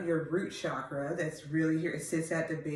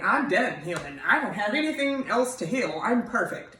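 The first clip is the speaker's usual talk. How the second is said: mock self-satisfaction; 3 semitones higher, 4 dB louder than usual. Coach imitating a viewer who thinks they're done healing, mock self-satisfied. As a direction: play someone who's sure they're perfect, lightly mocking.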